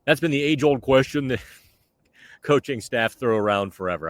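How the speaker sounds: put-on a light, joking Boston accent on the coach's words; playful half-Boston impression of the coach. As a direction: imitate Sullivan with a mild Boston accent, laughing into it. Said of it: "should I do my Boston accent?".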